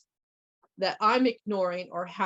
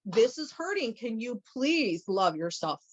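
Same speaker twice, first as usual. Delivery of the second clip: a hint of a scolding Mother Nature, pitched higher; voicing Mother Nature; 4 semitones higher than usual. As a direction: lightly play a nagging Mother Nature. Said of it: "She'll make the pain and go".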